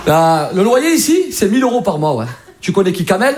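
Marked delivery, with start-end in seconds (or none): 0.1-2.3 slow Marseille landlord. Retold or imitated. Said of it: "un mec à Marseille".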